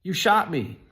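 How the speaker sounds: high, loud cry of shock; retold shriek of a man just shot. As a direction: shriek it out like you've just been hit. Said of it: "I shrieked".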